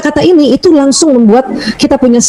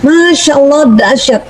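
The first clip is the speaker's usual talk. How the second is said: high-energy praise; 3 semitones higher, slower than usual. Shown as a demonstration. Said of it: "itu energinya tinggi".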